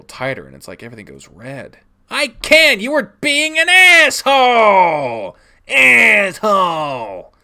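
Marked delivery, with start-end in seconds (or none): 2.1-7.3 put-on high, loud furious child's scream; cracking yell. Child exploding at dad, furious cracking yell. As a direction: yell till the voice nearly breaks. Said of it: "I yell so loud that my voice cracks".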